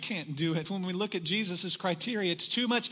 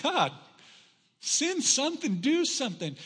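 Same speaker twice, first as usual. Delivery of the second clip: urgent retold prayer; 7 semitones higher, 3 dB louder than usual. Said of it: "I'm praying".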